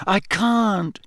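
a touch out of breath; panting. A narrator's reading. Harry struggling not to sink, panting. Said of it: "Harry panted".

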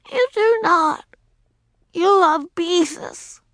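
put-on high, loud accusing child; high loud wounded retort; hurt accusation. A narrator's reading. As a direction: accuse parents of favoritism. Child accusing her parents.

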